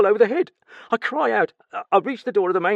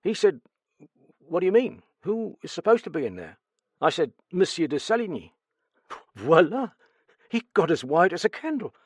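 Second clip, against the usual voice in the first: stammering, higher, louder frightened servant; nervous stammer; 7 semitones higher, 6 dB louder than usual. Acted. Steward questioned about the murder, nervous stammer. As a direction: stumble over the words in fright.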